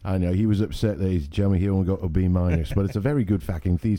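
mock-British commentary; playful British banter; British accent. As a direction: keep up the put-on British accent. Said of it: "we can only use British accents".

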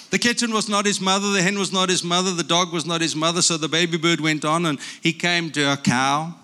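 lively picture-book reading with character voices; reading to children. Acted. Grandpa reading a picture book aloud to grandchildren, lively. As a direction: read it like a bedtime story to grandkids.

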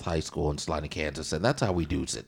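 loud, fast hyped promo; wrestling promo. Pretend. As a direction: cut a wrestling promo, bragging about your school. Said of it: "I'm doing a promo".

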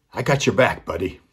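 put-on a player calling a promise to the boy; firm promise. Player reassures boy, first take.

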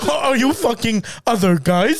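stilted robot-like questioning; lightly robotic parody of a friend; Sean impression. Jealous husband questioning his wife, stilted robotic impression. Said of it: "do a Sean accent, it just reminds me of, like, a robot".

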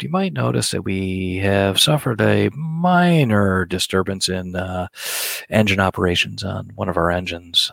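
lightly voiced airline captain announcement; calm captain's PA, deadpan over disaster; pilot cockpit headset. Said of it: "my best pilot's voice here".

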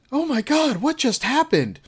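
high, breathless mock panic; panicked movie woman. Retelling the movie woman finding the soldier, high mock panic. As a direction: squeal it like the scared heroine. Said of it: "the woman runs up to him and goes".

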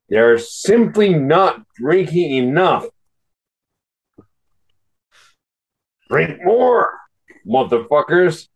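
mock-solemn article read with emphatic key words; declaiming an article, halting and over-emphatic. Real, not acted. Drunk man reads the article aloud.

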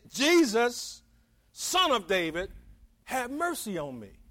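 mild imitation of a desperate outcry; retold beggar's cry, pausing between phrases; retold plea. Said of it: "he just burst out".

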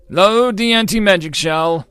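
high, loud cry to a crewmate; urgent high-pitched battlefield yell; shouted order. A narrator's reading. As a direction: cry out the command at full voice. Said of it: "cried out to his assistant".

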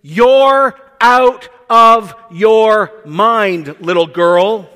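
scoffing church elder. Retold or imitated. Church dismisses the servant girl.

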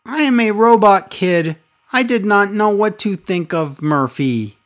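put-on a touch of a stiff robot kid; robot voice, lightly done. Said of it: "She's like a weird robot".

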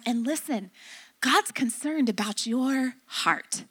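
composed, gentle correction, retold; calm parental counsel. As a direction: settle down and reason with the child. Mom calms down to counsel child.

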